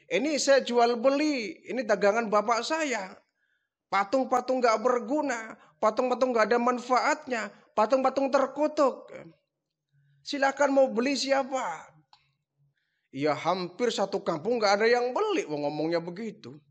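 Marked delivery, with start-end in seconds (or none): 0.1-12.0 hawker's pitch. Retold or imitated. Hawking idols to villagers.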